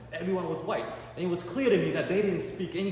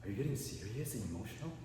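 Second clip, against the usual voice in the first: deadpan; 5 semitones lower, 11 dB quieter than usual. Retold or imitated. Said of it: "I'm like".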